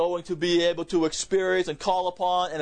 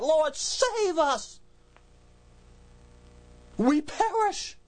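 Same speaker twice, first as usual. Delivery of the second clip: much higher, slow, screaming plea; terrified scream; much slower than usual. Shown as a demonstration. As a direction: cry out in terror to be saved from drowning. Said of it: "waking up and screaming that".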